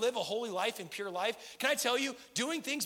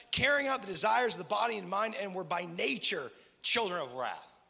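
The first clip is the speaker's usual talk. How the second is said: scripture reading. Acted. Reads Ephesians aloud.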